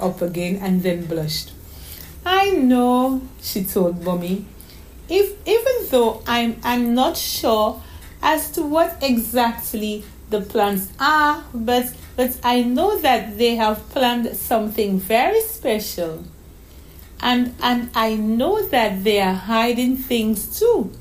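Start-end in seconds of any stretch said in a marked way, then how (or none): 2.3-3.2 put-on much higher, slow, halting child; little girl's voice. Daughter missing her mother on the phone, wistful. 5.1-20.9 put-on little girl's voice. Daughter missing her mother on the phone, wistful. Child voice.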